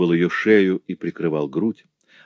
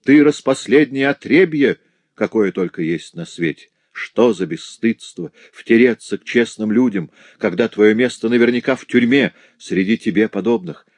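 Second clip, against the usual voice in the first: contemptuous, raised voice; scornful scolding; 4 semitones higher than usual. Acted. Farm mistress scorns the girl, raised contemptuous scolding. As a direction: scold her as vile scum. Madame Dubreuil scolds Marie.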